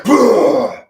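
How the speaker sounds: high, loud disbelieving shout; shouted bruh. Pretend. Streamer voicing a stunned onlooker, high loud shout. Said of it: "It's like".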